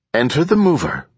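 high, bright chirp; chirpy. A narrator's reading. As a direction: chirp it like a cheerful machine. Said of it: "Enduring Bias chirped".

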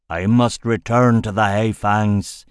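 fierce, urgent growl; savage growl. Acted. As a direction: growl it with raw fury. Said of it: "he growled savagely".

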